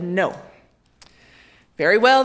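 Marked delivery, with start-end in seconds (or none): 1.8-2.2 cold threat. A narrator's reading. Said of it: "the king replied".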